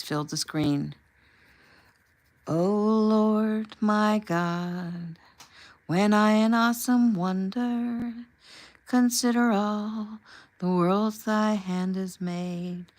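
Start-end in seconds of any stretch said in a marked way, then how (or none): 2.5-12.9 breathless, awed, slow and high; gasped in wonder. A narrator's reading. Young Eric overwhelmed watching the singer, gasping. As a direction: gasp the hymn words out in awe. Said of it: "young Eric gasped".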